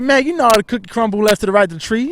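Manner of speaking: imitating mom. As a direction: play the baffled mother, stretching the last words. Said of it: "be like".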